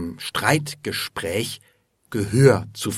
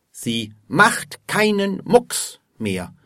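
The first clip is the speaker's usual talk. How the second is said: higher-pitched, mildly exasperated report; exasperated complaint; 9 semitones higher than usual. A narrator's reading. Alfred reports his machine is dead, with mild exasperation.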